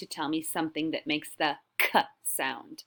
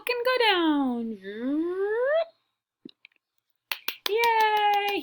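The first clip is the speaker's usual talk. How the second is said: cheering; 14 semitones higher, much slower than usual. Real, not acted. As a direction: celebrate like a game show win. Celebrating game move with kids.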